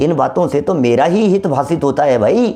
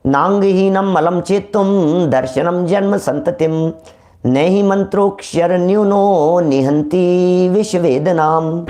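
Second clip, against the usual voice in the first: slow, measured chant of a Sanskrit verse; धीमे स्वर में श्लोक पाठ; scripture recitation; 3 semitones higher, slower than usual. Shown as a demonstration. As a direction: intone the shloka slowly like a temple reading.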